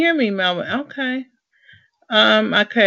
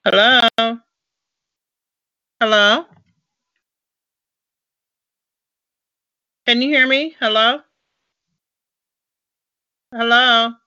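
calling out; 4 semitones higher, 4 dB louder than usual. Real, not acted. Calling into a dead call.

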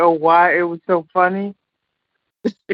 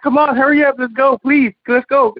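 mildly pushy, higher-pitched hurrying; 5 semitones higher than usual. Retold or imitated. Housekeepers rushing guests out of the room, mock pushy. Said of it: "These are the pushiest housekeepers".

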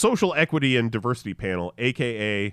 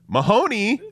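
announcer intro; 10 semitones higher, 8 dB louder than usual. Acted. Host introducing next segment.

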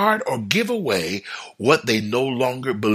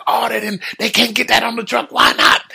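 high-pitched exasperated protest; acted upset; 12 semitones higher, 4 dB louder than usual. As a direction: protest in frustration, rising to a loud finish. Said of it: "I would be so upset".

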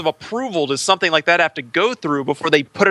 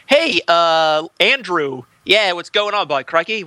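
mock Australian; 2 semitones higher, slower than usual. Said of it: "whatever the hell he talks like".

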